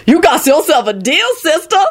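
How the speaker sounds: high-pitched, eager call back; eager shout. A narrator's reading. Lucretia accepting the deal from across the room, eager. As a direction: jump at the offer. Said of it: "Lucretia shouted back eagerly".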